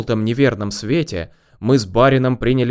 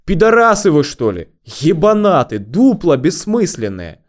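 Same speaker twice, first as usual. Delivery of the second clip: high, loud ringing outburst; ringing angry shout; 6 semitones higher, 4 dB louder than usual. A narrator's reading. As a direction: yell abuse so it rings from the next room. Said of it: "слышно только звонкое". (звонкий возмущённый крик)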